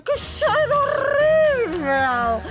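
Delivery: slow, high disgusted cry; bad smell. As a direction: recoil from a terrible stink. Clerk smells the fart.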